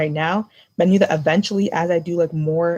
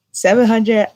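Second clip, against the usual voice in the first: shocked; 4 semitones higher, 5 dB louder, slower than usual. Real, not acted. Shock at the price.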